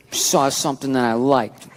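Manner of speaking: put-on slow, low-key little-girl act. Wife wheedling husband for a sweater, little-girl act. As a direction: play the little girl, drawn out and subdued. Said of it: "She went with the little girl".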